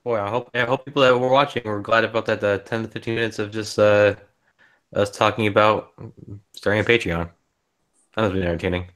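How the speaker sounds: deadpan sarcasm, mock sincerity; sarcastic. Real, not acted. Co-host on the livestream talk about starting a Patreon, sarcastic. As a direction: dryly pretend it was a treat. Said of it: "You being sarcastic or serious?".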